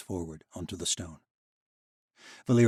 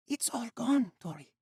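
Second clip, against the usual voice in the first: grim news. Acted. Vashti breaking bad news.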